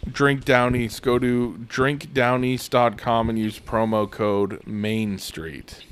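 mock radio ad voice; fake ad read. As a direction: read it like a sponsor spot. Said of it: "Do a fake ad read".

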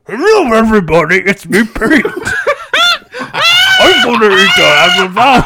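a hint of cartoon Pete; lightly voiced cartoon bully; Pete impression. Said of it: "this impression of Pete".

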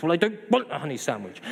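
quick, insistent sulky refusal; mock grumpy. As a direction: dig in like a grumpy kid. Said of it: "We get all grumpy".

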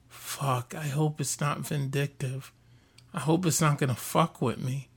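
quiet, low retold dread; hushed retold worry. Podcaster recalls locking himself in from a cricket, hushed. Nervous retold reaction under breath.

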